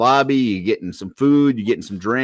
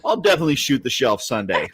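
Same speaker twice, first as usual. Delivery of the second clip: clueless woman agreeing; 5 semitones higher than usual. Retold or imitated.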